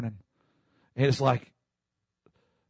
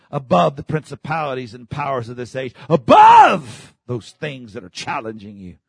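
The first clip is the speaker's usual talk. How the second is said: preaching shout; 7 dB louder than usual. Retold or imitated. Preaching climax on phone.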